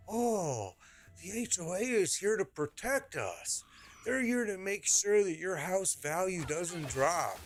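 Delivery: high, slow sing-song mock; mimicking neighbors who defend the HOA, high and sing-song; mocking naive neighbor. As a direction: parody the neighbors' trusting tone. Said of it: "my neighbors think I'm out of control".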